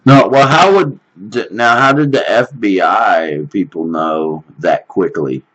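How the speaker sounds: a real jolt of surprise; surprised question. Real, not acted. Caller startled by FBI detail.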